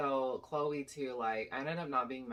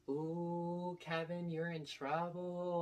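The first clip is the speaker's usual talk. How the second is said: imitating a teasing crowd, higher and drawn out; sing-song "ooh, you're in trouble" taunt; mock oohing; 5 semitones higher, much slower than usual. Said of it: "everyone is just oohing and laughing".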